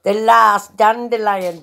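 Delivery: slow drawn-out alien lip sync; alien filter voice. Retold or imitated. To viewers, quoting the TikTok alien line, slow. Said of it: "and it goes".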